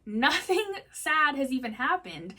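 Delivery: rising disbelief, building to a high loud cry; incredulous self-questioning. Retold or imitated. Reader marvelling at her own tears, disbelieving to near shout. Retelling her shock while reading.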